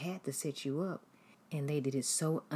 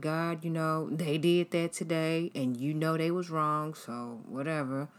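dismissive prayer; 3 dB louder than usual. Retold or imitated. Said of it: "read your Bible like".

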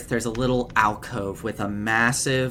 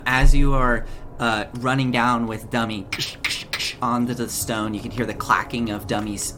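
ordinary talk

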